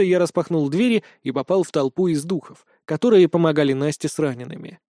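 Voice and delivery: ordinary delivery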